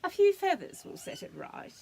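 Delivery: high emu voice. Acted. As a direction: make the emu sound high and fussy.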